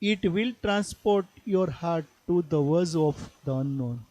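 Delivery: slow, measured poetry reading; poem recitation. Acted. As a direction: read the verse slowly, phrase by phrase. Reads poem lines aloud. (ધીમું કાવ્ય પઠન)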